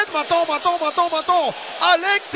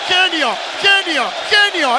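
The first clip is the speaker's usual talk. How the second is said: shouting. Real, not acted. Goal celebration chant.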